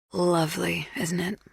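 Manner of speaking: light whisper. A narrator's reading. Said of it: "she said".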